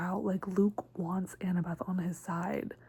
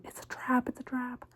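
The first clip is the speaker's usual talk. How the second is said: higher-pitched imitation of yelling, held back in volume; mock yell; 5 semitones higher than usual. Friends warn Percy as he climbs down, mock yelling. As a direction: call a warning in a small, high mock yell. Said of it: "are yelling at him".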